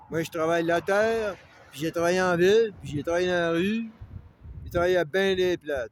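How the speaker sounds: chest-out working-man brag; proud loud boast. Real, not acted. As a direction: hammer each place you worked. Boasting rant about his hard work.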